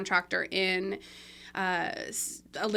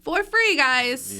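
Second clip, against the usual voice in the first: "For free" punched high and loud; stress on free; 5 semitones higher, 8 dB louder, much slower than usual. Real, not acted. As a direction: hit "For free" hard and high. Emphasis on free.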